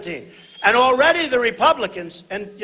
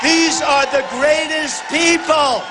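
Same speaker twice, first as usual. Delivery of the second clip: rally shout; 5 semitones higher, slower than usual. Real, not acted. Praising police to rally crowd.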